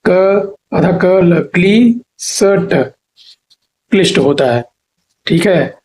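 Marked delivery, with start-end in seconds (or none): 0.0-2.7 क आधा क ल said slowly, sound by sound; teacher breaks क्ली सट into slow parts; slow spelled-out sounds. Shown as a demonstration. Teacher spells the word slowly for students. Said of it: "ऐसे नहीं".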